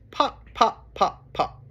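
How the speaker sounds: short popping words, starting high; cork popping. Acted. Reader showing children a cork's sound, short pops. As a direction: pop like a cork. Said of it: "He can sound like a cork".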